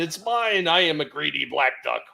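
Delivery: a hint of a greedy cartoon duck; lightly voiced greedy duck; Daffy Duck. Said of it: "uh, Daffy Duck".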